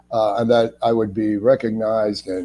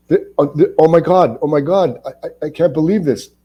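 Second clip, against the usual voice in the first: higher, choked-up disbelief, half-sobbing; overwhelmed crying; 6 semitones higher than usual. Retold or imitated. Actor told he's added to Oz, voice breaking with tears. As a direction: relive the tearful moment of hearing the news. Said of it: "I truly cried".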